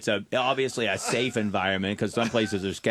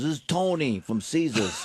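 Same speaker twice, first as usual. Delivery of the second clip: higher-pitched casino wise guy; basement guy impression; 4 semitones higher than usual. Casino man phoning the comic, imitated shady caller. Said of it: "like a guy you would think would be calling from the basement".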